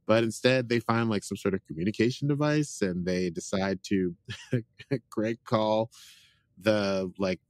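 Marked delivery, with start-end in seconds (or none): 4.2-5.0 short laugh mid-sentence; amused chuckle. Real, not acted. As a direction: break into a brief chuckle. Amused while recapping.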